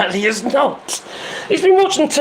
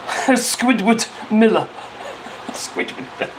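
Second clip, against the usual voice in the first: laughing through it. Real, not acted. Reading a silly chat name.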